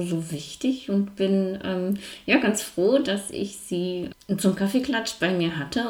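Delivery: mumbling through a wired jaw; talking with the teeth clamped together; jaw wired shut. Real, not acted. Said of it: "warum ich jetzt so ein bisschen nuschelig klinge". (mit verdrahtetem Kiefer genuschelt)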